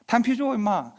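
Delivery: high, sharp order to pick up casings; retold order. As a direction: bark it at the cheeky corporal. Officer orders corporal pick up casings.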